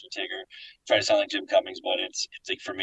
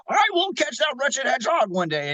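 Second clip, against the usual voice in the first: villain voice. Retold or imitated. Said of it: "and he goes".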